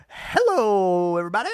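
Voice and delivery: put-on half-hearted Irish accent; attempted Irish accent. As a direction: try an Irish lilt and miss. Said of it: "I don't know how to do an Irish accent".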